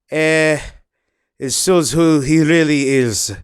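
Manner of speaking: put-on sketch a Mexican-accented Sergio, half-hearted; lightly imitating a disgruntled teammate; mock Sergio voice. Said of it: "My impressions are usually good".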